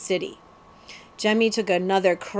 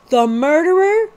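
higher, louder shocked question; 8 semitones higher, 6 dB louder than usual. Acted. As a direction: gasp it out. Jemmy shocked.

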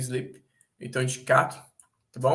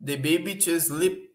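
slow test read; slower than usual. Shown as a demonstration. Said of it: "testing options in sentence".

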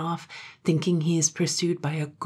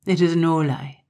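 a lightly voiced brooding Highland man, dropping to a hush; brooding Gloom; 2 semitones lower, 4 dB louder than usual. Gloom telling Katrine his brother is drowned, grim and hushed.

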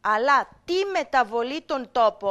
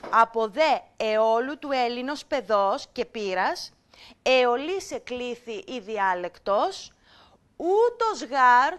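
put-on measured, slightly slow recitation of the old Greek; teacher reciting a passage for students; reading ancient text; 3 dB louder, slower than usual. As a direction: read it out like a classroom text. Reads ancient text to class.

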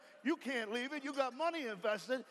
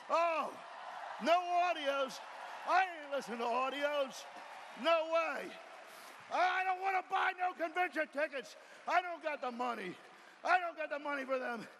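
stubborn excuses; 3 semitones higher than usual. Retold or imitated. Quoting stubborn excuse-makers.

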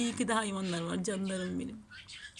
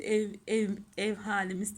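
tongue-tied stumble. Real, not acted. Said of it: "dilim dönmedi".

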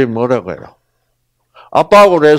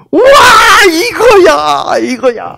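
아주 높고 크게 환호하는 아들; 선물 받은 아이처럼 터지듯 외치기; 기뻐하는 아이; 8 dB louder, slower than usual. Acted. 아들이 장난감 받고 기뻐함. (장난감 받고 환호하는 아들, 높고 큰 환성)

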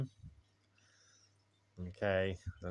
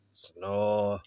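mock snore; 6 dB louder than usual. A narrator's reading. Ted's snore voiced in story.

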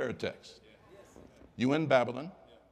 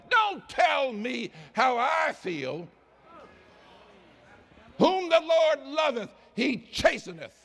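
God rebuking complainers; 7 semitones higher, 3 dB louder than usual. Acted. Preacher voices God rebuking complainers.

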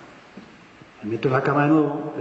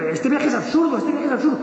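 raised high, repeating it in alarm; the captain crying out that the trip is pointless; 9 semitones higher than usual. Retold or imitated. Ship's captain to the passengers, high alarmed cry. Captain sabotaging ship, shouting.

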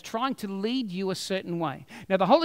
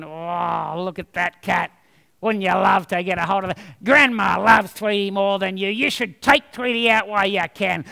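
lightly voiced devil cat, sly; devil on the shoulder; 3 semitones lower than usual. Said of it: "that cat's going".

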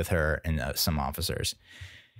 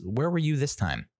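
pitched up, teasing question; mock high scolding; 6 semitones higher than usual. To the dog that never barked, high mock scolding.

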